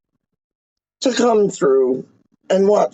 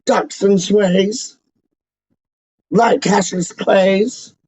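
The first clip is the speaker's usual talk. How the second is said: drawn-out, slow boxing rhyme; slower than usual. Pretend. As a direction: spell out each word slowly like a chant. Rhyming boxer patter.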